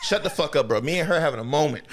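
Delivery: fed-up viewer yelling at the villain; heated laughing rebuke. Retold or imitated. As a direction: push the rebuke harder while cracking up. Repeating it more heated.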